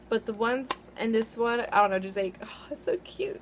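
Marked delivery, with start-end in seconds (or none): 2.4-3.4 gushing. Real, not acted. Gushing over tiny cute palette.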